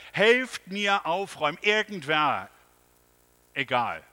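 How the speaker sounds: loud, urgent call for help. A narrator's reading. The panicked man calls neighbours to help tidy. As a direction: shout for anyone to come. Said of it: "rief er".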